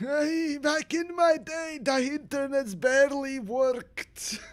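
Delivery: put-on very high-pitched old man voice. Talking to an online audience, the speaker slips into an old man voice. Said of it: "I now sound like an old man".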